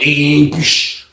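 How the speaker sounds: vocal sound effect of a sliding door; imitated door noise. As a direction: buzz then a hiss of the cell door. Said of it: "She hit the joint".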